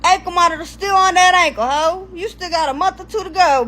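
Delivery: retold sassy callout; incredulous scolding. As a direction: call him out in disbelief. Scolding the boyfriend.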